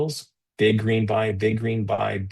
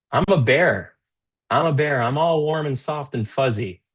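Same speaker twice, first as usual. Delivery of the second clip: lightly playful, higher-pitched lilt; 5 semitones higher than usual. Real, not acted. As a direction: say it high, like a harmless cuddly bear. Playfully calls self a cuddly bear.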